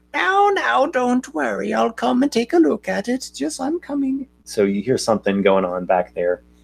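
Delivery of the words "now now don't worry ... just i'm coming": put-on very high, rough, creaky elderly woman's voice. Narrating to a player by the door, voicing someone down the hall: older woman's voice. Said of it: "you hear an older woman's voice, like".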